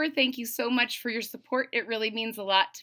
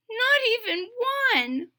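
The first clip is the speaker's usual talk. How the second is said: higher, mildly mournful toad; Toad's voice; 13 semitones higher than usual. Acted. Toad mourning the last cookie, higher voice. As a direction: let it sink in.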